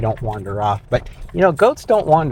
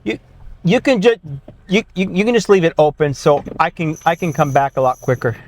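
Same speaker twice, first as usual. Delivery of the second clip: raised voice calling across the yard; 5 semitones higher than usual. Real, not acted. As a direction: call it out to someone nearby. Calling out to someone outside.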